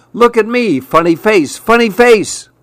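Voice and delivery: high, singsong teasing; teasing lizard voice. Acted. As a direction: tease to get noticed.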